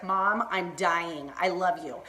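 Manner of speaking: low, slow retold declaration to mom; drawn-out affection. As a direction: draw it out low, half swooning. Retelling her tender reaction to mom.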